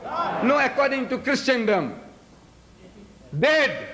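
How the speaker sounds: normal talking voice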